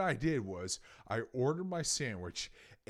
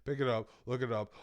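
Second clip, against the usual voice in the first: ordinary delivery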